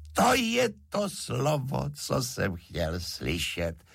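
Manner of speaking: high, delighted exclamation; triumphant relief. A narrator's reading. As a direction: burst out as if finally hearing it. Driver delighted at her confession.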